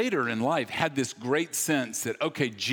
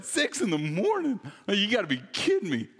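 high, mock-incredulous outburst; mock disbelief; 7 semitones higher than usual. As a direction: act appalled at the early hour. Mocking early-morning Bible studies.

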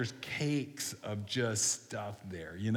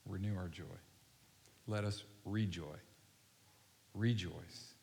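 hushed, lowered voice leading a congregation in prayer; slow prayer; 3 semitones lower than usual. Real, not acted. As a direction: pray unhurriedly, leaving room to reflect. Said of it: "I'm gonna pray really slow".

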